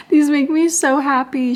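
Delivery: ordinary talk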